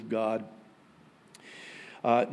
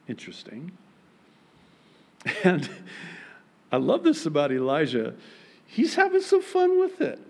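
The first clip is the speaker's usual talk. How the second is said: usual speaking voice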